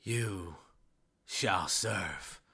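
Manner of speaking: lightly voiced ominous decree; understated in-character threat; ominous servant of darkness. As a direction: pause between phrases, trailing into a near-whisper. Game master voices undead child's threat.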